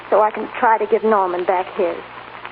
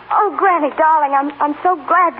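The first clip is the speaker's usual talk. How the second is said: tearful relief; 4 semitones higher than usual. Acted. Tearful greeting of grandmother.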